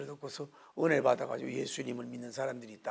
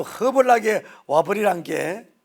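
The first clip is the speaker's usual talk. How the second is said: loud, slow, higher Jeolla welcome; Jeolla accent; 6 semitones higher, 13 dB louder than usual. Retold or imitated. Pastor hamming up a Jeolla welcome, loud slow Jeolla accent. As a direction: drawl it big like a Jeolla host. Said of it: "전라도".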